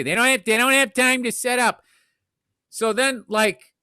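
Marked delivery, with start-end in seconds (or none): 0.0-1.8 lightly mocking pundit voice, a bit higher; a hint of a higher, insistent pundit; mocked commentator. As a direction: imitate a know-it-all lightly. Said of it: "that's how he sounded to me".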